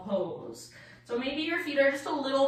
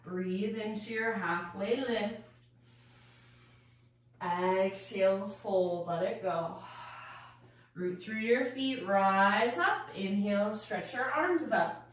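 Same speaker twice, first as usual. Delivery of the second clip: guided meditation; 4 semitones lower, 4 dB quieter than usual. Acted. Leads a standing meditation.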